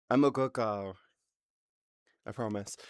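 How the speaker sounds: put-on far-off cutesy good-girl voice; cute innocent voice. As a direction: sell your innocence sweetly.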